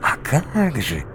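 high, slow eager reply; eager subordinate. Acted. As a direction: answer with eager surprise.

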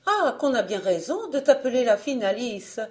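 cri aigu et fort de la mère; elle s'exclame en larmes; la mère crie. A narrator's reading. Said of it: "La mère criait". (la mère crie, voix aiguë et forte)

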